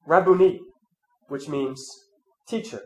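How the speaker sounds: measured, solemn Gospel reading; scripture reading. Acted. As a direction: read the Gospel to the congregation. Reads the Gospel aloud.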